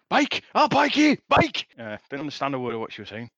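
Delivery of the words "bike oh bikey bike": high, loud Yorkshire mum voice; broad Yorkshire accent. Retold or imitated. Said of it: "my mum speaking broad Yorkshire accent".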